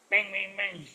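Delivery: evenly repeated sound-effect words; imitated door knocking.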